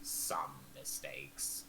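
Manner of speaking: very low, slow, soft mimicked echo; grudging echo. Kettle Steam grudgingly echoing Zalora, low and slow. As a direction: drag it out deep and sullen. Grudging Kenku echoes the words.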